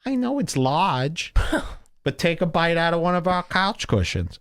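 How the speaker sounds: a hint of mock hospitality; Keith. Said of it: "he leads me to the couch".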